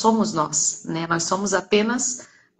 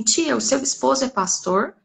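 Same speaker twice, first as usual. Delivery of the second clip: lightly voiced child, higher pitch; criança perguntando; 6 semitones higher than usual. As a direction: ask like a curious child, lightly imitated. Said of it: "aquela criança fala assim". (imitando de leve uma criança)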